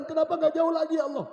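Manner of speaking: high, loud cry of regret; preacher acting a dying man's lament; regretful cry. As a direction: hammer out an anguished plea to God. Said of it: "Dia menyesal".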